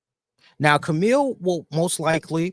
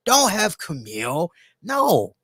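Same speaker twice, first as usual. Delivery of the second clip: mildly agitated, raised-pitch protest; alarmed objection; 3 semitones higher than usual. Retold or imitated. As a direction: object as if stopping a mistake mid-thought. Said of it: "was my thought process".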